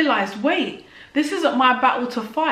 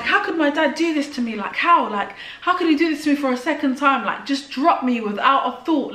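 retold venting shout; 3 semitones higher than usual. Venting to a friend on the phone in Tesco, mild mock shout. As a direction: replay the rant as a mild mock yell. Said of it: "having a massive shout".

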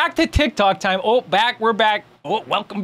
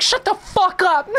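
high, drawn-out comic outburst with a laugh; mock exasperation; 11 semitones higher than usual. Streamer acting out scolding a clattering plate, mock angry. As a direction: playfully scold it, pitched way up and slow. Acted yelling at noisy dishes.

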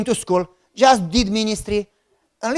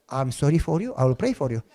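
mock pity; 8 semitones lower, 8 dB quieter than usual. Joke about marrying his cousin.

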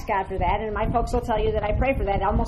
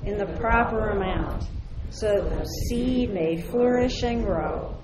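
prayer; slower than usual. Acted. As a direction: pray with growing force. Blessing prayer, rising in force.

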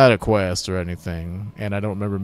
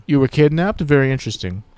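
intrigued hero; 7 semitones higher, 8 dB louder than usual. Acted. Player character questions.

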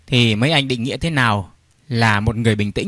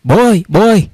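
put-on high-pitched child calling out; raised, excited boy's call; loud shout; 8 semitones higher, 4 dB louder, faster than usual. A narrator's reading. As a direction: shout for dad as if running home. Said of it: "chạy về và hét to".

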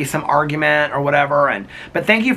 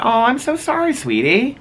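high-pitched cooing sympathy; sympathetic; 12 semitones higher than usual. Real, not acted. Consoling a viewer who wasn't invited, sympathetic coo. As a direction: console them with a high, tender "oh".

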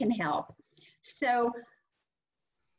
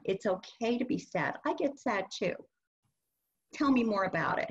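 reassuring. Shown as a demonstration. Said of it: "you wanna reassure them".

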